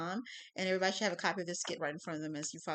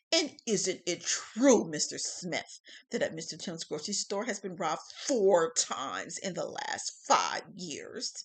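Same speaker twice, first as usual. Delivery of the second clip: insinuating; 2 semitones lower, 5 dB louder, slower than usual. Acted. Prosecutor insinuates.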